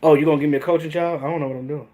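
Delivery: clueless coach. Retold or imitated. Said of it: "talking like a coach that never coached before".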